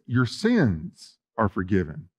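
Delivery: Jesus speaking tenderly to the paralyzed man; tender forgiveness. Acted. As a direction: say it slowly and softly, like a blessing. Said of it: "the word son there is a very tender word".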